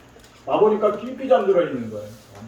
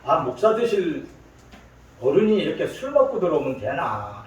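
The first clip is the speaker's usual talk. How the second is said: lightly voiced Gyeongsang mother chiding; Gyeongsang accent. Mother chides her future-pastor son for drinking, Gyeongsang accent. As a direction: imitate a mother's mild scolding in Gyeongsang dialect. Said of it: "이게 경상도 사람이거든요".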